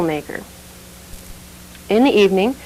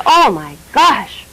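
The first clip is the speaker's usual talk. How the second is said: slow, mildly outraged priest; a hint of shocked fury; slower than usual. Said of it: "he was outraged".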